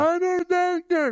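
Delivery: high, slow, careful delivery; Good Doctor impression. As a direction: imitate the actor's halting doctor. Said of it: "The Good Doctor".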